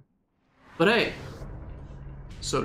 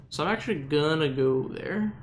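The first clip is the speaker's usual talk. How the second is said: a touch of Southern slipping in; lightly Southern-tinged speech; slight southern accent. Real, not acted. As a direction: let a faint southern US accent creep in. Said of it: "a southern accent slipped in".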